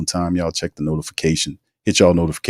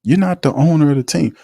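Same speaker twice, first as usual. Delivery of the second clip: incredulous scoff; 9 semitones higher than usual. Retold or imitated. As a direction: scoff at an employee acting like the owner. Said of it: "And I was like".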